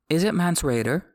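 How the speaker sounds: mildly nervous, voice lifted; anxious. A narrator's reading. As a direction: ask it with a touch of worry. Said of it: "Satin asked anxiously".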